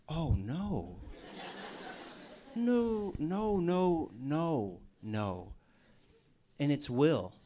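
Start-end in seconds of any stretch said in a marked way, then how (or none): 0.1-5.5 laughing dismay. Retold or imitated. Dreading the pushy friend next door.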